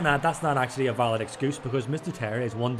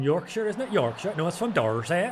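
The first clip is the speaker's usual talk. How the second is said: put-on higher, questioning English regional accent; attempt at Adam's English accent; 5 semitones higher than usual. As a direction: try on a Yorkshire or Dorset accent. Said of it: "try and figure out Adam's".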